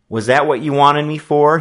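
loud, high angry demand. A narrator's reading. Boy demanding an answer from his sister, loud. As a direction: demand it as he turns to go. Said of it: "he demanded".

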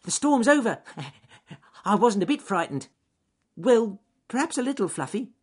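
very high squeaky bunny with a little laugh; high, loud little rabbit voice; bragging rabbit. A narrator's reading. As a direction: squeal it with false bravado. Rabbit pretends he was brave.

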